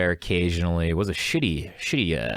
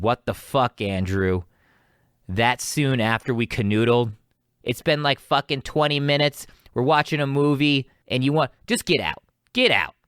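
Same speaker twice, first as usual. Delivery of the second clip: mildly heated imitation of an angry girlfriend; retold flip-out; 3 semitones higher than usual. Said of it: "she just flipped out".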